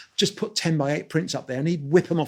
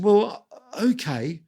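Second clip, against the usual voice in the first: drawn-out, higher, hesitant okay; hesitant agreement; 5 semitones higher, much slower than usual. Retold or imitated. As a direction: stall slowly as you agree. Weighing the publicist's offer to buy.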